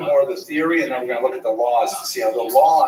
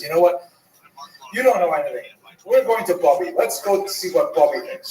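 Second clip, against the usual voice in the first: angry daughter; 4 semitones higher than usual. Acted. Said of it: "the daughter gets really angry about it and says".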